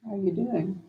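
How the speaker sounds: soft, slow hello to Mom; gentle slowed greeting. Shown as a demonstration. Caregiver greeting her mother, slow and soft. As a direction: ease into it gently, voice dropping away. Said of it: "slow it down".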